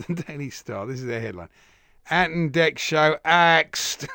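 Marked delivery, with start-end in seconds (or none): 2.1-4.1 slow, loud mock-tabloid drama; mock dramatic. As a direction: spell out the doom headline. Reading a tabloid headline mockingly.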